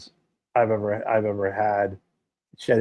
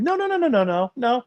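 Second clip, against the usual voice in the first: emphatic no; 13 semitones higher than usual. Acted. Emphatic refusal of changing recipes.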